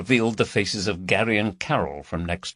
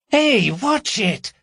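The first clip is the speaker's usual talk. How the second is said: complaining; 14 semitones higher, 4 dB louder, slower than usual. Acted. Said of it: "she complained".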